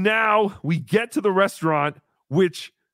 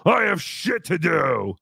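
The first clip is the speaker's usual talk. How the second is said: retold angry refusal; slower than usual. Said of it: "And he said".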